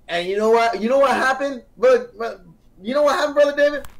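high-pitched, incredulous lead-up; building excitement. Real, not acted. Storyteller to Brother David before the reveal, excited.

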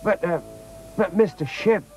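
put-on high, hesitant child's voice; a confused child, halting before the question; puzzled. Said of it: "said Robin, still very puzzled".

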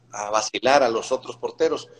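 ordinary talk

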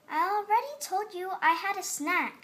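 irritated snap; snapped back. A narrator's reading. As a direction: snap at her, annoyed. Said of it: "she snapped back".

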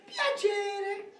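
strangled drawn-out piacere. Acted. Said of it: "ha parlato mezz'ora per dire piacere".

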